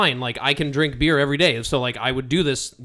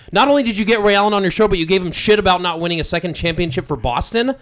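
angry rant; 2 semitones higher than usual. Real, not acted. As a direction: fire off an angry tirade. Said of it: "this is for sure the German angry juice".

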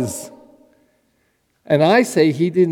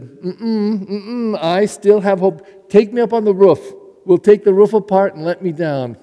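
determined; 4 semitones higher, 4 dB louder than usual. Retold or imitated. Paralyzed man refusing to give up.

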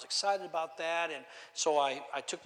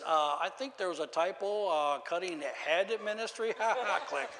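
mocking laughing caller; 3 semitones higher than usual. Guy leaving a mocking message on the machine, laughing. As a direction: imitate a caller chuckling through his message. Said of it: "It was a guy kinda laughing".

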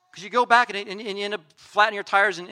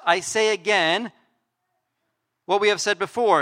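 all caps; 2 semitones higher, 5 dB louder than usual. Acted. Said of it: "firing up the all caps".

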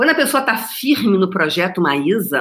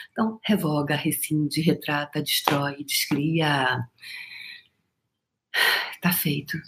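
softer, low ritual-like listing of verbs; solemn quiet decree; 5 semitones lower, 7 dB quieter than usual. Shown as a demonstration. Cancelling bad energy for viewers, soft incantation. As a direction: pronounce it softly like a spell. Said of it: "Parece um chachadinho".

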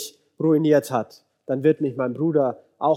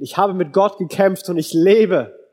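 higher-pitched, mildly exultant declaration; triumphant; 4 semitones higher, 3 dB louder than usual. Acted. Jacob realises he has met God, triumphant. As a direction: proclaim it with a touch of triumph.

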